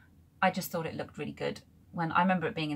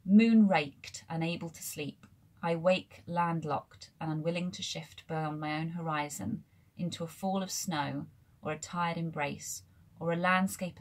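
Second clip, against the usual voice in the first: poem reading. Acted. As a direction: let each image settle as you read. Reads a poem aloud.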